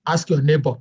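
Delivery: put-on lightly thickened accent, neighbor without its final R; thick accent. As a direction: retell it in a thick non-American accent. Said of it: "in my thick accent, I was like".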